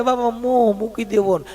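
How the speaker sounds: soft, hushed preachy voice; a lightly voiced holy man murmuring; mock guru advice. Preacher mocking gurus, soft and hushed.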